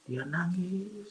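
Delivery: very slow, stretched last word; drawn-out emphasis. Retold or imitated. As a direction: linger on the final syllable for suspense. Draws out father's weeping.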